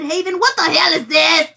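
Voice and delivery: exasperated outburst. Retold or imitated. Retelling an exasperated reply to Haven, exasperated.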